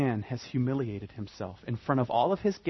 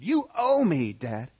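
entitled; 3 semitones higher, 3 dB louder, slower than usual. Retold or imitated. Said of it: "that's his attitude".

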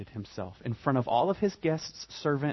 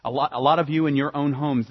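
usual speaking voice

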